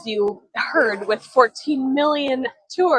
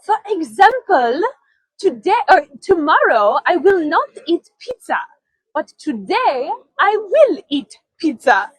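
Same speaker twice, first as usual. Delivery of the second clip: retold reply; 6 semitones higher, 4 dB louder than usual. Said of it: "she goes".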